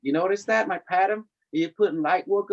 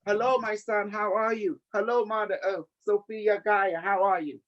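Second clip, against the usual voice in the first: lightly higher Cambodian English voice; 5 semitones higher than usual. Retold or imitated. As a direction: gently voice Earth speaking in Cambodian English. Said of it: "I hear in Cambodian English".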